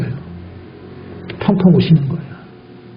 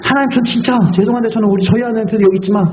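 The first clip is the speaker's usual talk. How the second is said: retold prayer; 5 semitones higher than usual. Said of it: "라고 제가".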